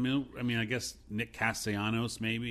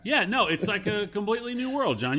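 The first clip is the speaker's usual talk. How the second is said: sarcastic; 8 semitones higher, 6 dB louder than usual. Acted. Mock invitation back home.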